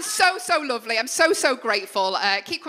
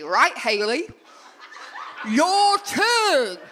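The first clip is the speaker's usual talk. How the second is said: mock Ken; 4 semitones higher, much slower than usual. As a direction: play the cheeky lad egging her on, voice jumping up. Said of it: "Ken goes to me".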